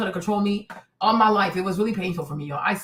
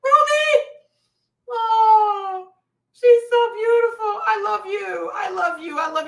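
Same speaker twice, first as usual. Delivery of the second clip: gushing high cry; 9 semitones higher, 3 dB louder, slower than usual. Real, not acted. Gushing over the girl.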